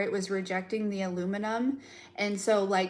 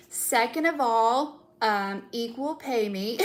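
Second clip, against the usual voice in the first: slow, deliberate sass; drawn-out sassy list; sassy demand; slower than usual. Pretend. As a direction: lay down the terms slowly. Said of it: "this energy of like".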